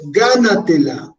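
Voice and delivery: "gánatela" slowly, with the weight on the first syllable GA; teacher's slow model of "gánatela", stressed on GA. Shown as a demonstration. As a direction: lean on GA in "gánatela", letting "natela" fall away. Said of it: "tónico, ga".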